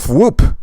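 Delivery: quick comic-book whoop; voiced sound effect. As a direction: read it out as a swooping noise. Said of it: "I have to say the sound effects".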